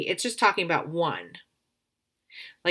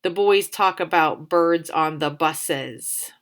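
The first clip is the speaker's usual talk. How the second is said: slow trial reading; slower than usual. Shown as a demonstration. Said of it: "So here's my words".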